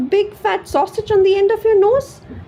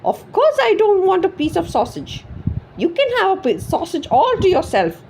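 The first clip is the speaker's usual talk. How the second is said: furious screech; 12 semitones higher than usual. A narrator's reading. Wife screeching at her husband over the sausage. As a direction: tear into him, outraged. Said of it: "she screeched".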